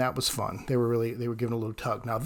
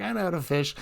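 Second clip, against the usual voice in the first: higher, softer mock protest; imitated upset retort; 5 semitones higher, 4 dB quieter than usual. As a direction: play her miffed comeback lightly. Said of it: "she was getting upset".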